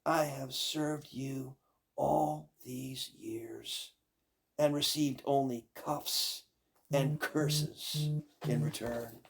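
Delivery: slow aggrieved servant voice; resentful maid. Acted. Maid answering the witch. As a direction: drag out years of grievance.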